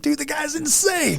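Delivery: high and slow mock-serious voice; lightly hammed-up impressed friend; imitating his friend. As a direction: drag it out, playing the buddy. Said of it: "He's like".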